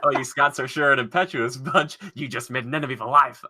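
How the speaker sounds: amateur Scottish cartoon impression; Simpsons back-and-forth. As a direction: quote the cartoon exchange with a Scottish lilt. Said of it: "Principal Skinner back and forth".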